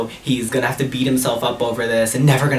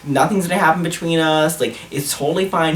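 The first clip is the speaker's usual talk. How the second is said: higher-pitched, urgent reassuring; retold reassurance; 4 semitones higher than usual. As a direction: hurriedly soothe someone who is panicking. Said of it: "I was trying to assure him".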